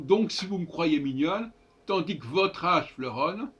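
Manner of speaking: "me croyez" as m'croyez, "que votre" as k'votre; new elided reading. Shown as a demonstration. Teacher shows the two changed lines, "me" and "que" losing their e. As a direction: drop the e in "me" and "que". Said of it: "Donc là, voyez-vous".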